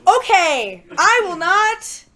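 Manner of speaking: slow, deliberate calm talk-down; mock polite send-off; mock reasonable fan. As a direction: put on a patient, calm voice. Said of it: "and I'm like".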